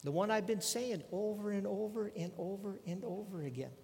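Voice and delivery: lightly acted weary insistence; Jesus. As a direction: labour each repeat as if tired of saying it. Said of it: "Jesus just kinda looks back at him and says".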